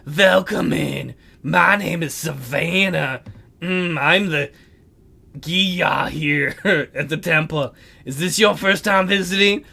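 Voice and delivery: slow, airy priestess voice; breathy voice. Acted. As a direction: breathe the words out slowly and distantly. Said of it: "a strange, breathy voice".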